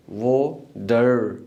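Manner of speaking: "वो डर" drawn out very slowly to show the "dər" ending; sound demo. Shown as a demonstration. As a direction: stretch out "डर" like the end of American "water". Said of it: "डर की sound आती है". ("डर" की आवाज़ को बहुत धीरे खींचकर बोलें)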